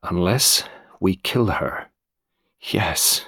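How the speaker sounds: slow, soft, deliberate completion; grave, hushed resolve; steady. A narrator's reading. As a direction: finish the thought quietly and evenly. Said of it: "Raymond said steadily".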